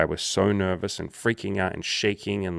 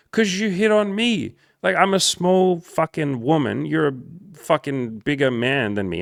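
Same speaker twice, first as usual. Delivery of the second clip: high, loud, drawn-out mock-female protest; imitated protesting woman; 9 semitones higher, 5 dB louder than usual. Coach acting out her protest at him, high slow mock-female voice. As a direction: stretch it out high, mimicking her complaint.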